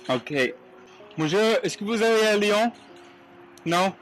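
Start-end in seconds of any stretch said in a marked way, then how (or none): 1.2-3.9 high, bright-voiced French with a heavy American accent; thick American accent in French. Real, not acted. Asking drivers for a ride to Lyon, higher and louder, American accent. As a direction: ask politely in clumsy American-accented French. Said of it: "with these thick accents".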